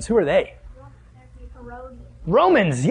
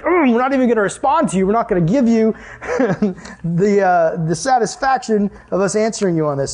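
mock huffy Pharisees; 3 semitones higher than usual. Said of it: "And they're mad".

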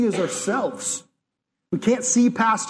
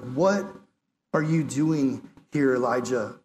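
gentle, searching question; 6 semitones lower, slower than usual. Acted.

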